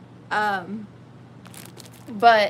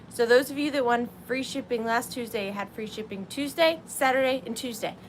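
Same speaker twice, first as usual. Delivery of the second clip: out of breath. Real, not acted. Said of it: "I'm out of breath".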